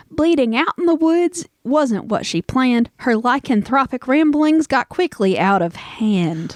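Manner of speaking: measured verse reading; toast recital. Acted. Host reads out a toast to listeners, lightly declaimed.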